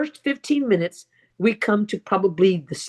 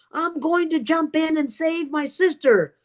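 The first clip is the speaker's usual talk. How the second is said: storyteller's raised-pitch, held-back yell; retold yell; 6 semitones higher than usual. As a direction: act out a desperate vow. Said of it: "my best friend yells again".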